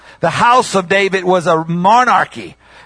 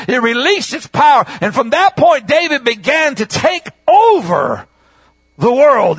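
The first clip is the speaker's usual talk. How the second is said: raised, driving preacher's voice; full-force preaching; 4 semitones higher than usual. Real, not acted. Preacher telling the congregation of David's crown, full-force preaching.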